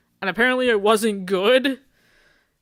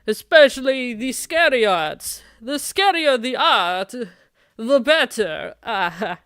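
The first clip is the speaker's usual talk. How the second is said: a hint of theatrical dark poet, slow in places; lightly grandiose brooding goth; slower than usual. Nervous boy posing as vampire to his date, lightly theatrical. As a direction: play at being a creature of the night.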